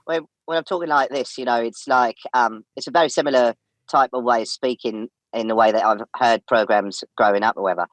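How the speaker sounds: polished British accent, smooth and even. Shown as a demonstration. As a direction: speak like a BBC presenter. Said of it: "I change my voice like this".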